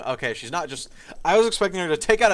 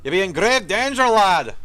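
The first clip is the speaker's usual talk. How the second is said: higher, louder gruff dwarf voice, slow; gruff dry dwarf; 5 semitones higher, 6 dB louder than usual. Acted. Ghost dwarf warning the hero of danger, gruff and loud. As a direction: play an old dwarf soldier, rough and urgent. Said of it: "his voice gruff and dry".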